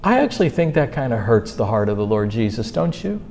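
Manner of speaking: soft, low tender appeal. Real, not acted. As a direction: ease down into a gentle admonishment. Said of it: "I mean this so tenderly to you all".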